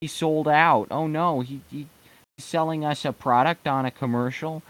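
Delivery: a lightly hammed-up upset fan; mock whiny fans. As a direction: whine like a betrayed fan. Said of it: "Everyone's like".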